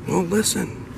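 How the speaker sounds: high, insistent bride; exasperated insistence. Acted. Bride urging her sleepy husband to listen, exasperated. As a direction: pitch it way up, insisting.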